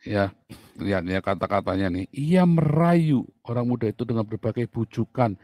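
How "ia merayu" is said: ia merayu said slow, high and louder; slow mocking stretch on the word merayu; drawn-out seduce. Shown as a demonstration.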